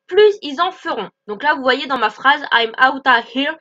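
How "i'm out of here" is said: "out of" merged into "outta"; contracted. Shown as a demonstration. Teacher pointing out contractions, says "outta here". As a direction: reduce "of" in "out of here" to "a". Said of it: "j'ai déjà deux contractions".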